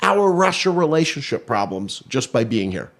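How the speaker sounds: mock Trump boasting about Russia; hammed-up presidential bluster; Trump impression. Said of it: "but then he added".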